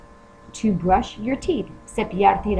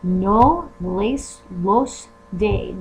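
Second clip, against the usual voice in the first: slow model sentence; much slower than usual. Shown as a demonstration. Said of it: "which would be le".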